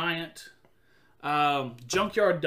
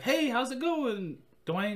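principal voice; 7 semitones higher, slower than usual. Retold or imitated. Principal greets the kid.

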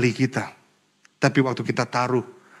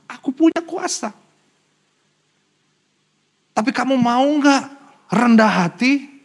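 raised, insistent challenge as Jesus; Jesus challenging; 4 semitones higher than usual. Retold or imitated. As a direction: press the question, pitched higher. Jesus voiced challenging the father.

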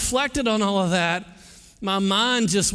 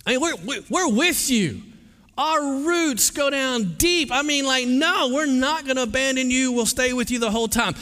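eager disciples; 5 semitones higher than usual. Retold or imitated. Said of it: "what do they say?".

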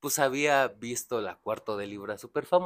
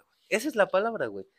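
ordinary talk

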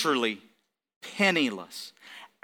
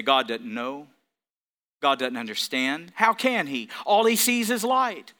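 mocking Satan voice; 6 semitones lower, 3 dB quieter than usual. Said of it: "and say".

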